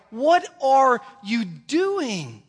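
slow, high, drawn-out disbelief; God asking in loud disbelief; God exasperated. Retold or imitated. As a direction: stretch it out like you can't believe it. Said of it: "God's like".

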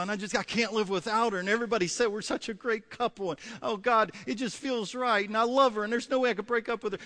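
acted lovesick begging; pleading lovesick. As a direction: plead your case to God, tripping over "and, and". Acting a lovesick man pleading.

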